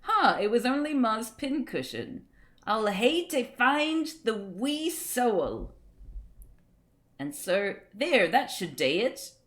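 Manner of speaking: restrained read of Scots words, accent held back; attempt without accent. Shown as a demonstration. Streamer testing the comic on viewers, accent toned down. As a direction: try reading the Scots without putting on the accent. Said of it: "how can you read this without an accent?".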